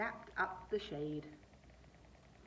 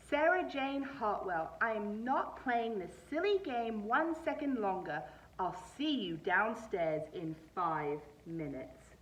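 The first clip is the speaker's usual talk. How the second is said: stern father; 4 dB louder than usual. Acted. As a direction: lay down the law. Father losing patience.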